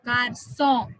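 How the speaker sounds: "Garçon" with an s in the middle; soft c as s. Shown as a demonstration. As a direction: say "Garçon" as gar-SON. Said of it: "from k to s".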